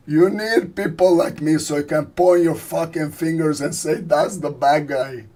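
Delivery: lightly voiced movie mobster, slowing at the end; mock mob-boss speech; Al Pacino. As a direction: play the gangster, stretching out the last phrase. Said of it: "This is my impersonation of Al Pacino".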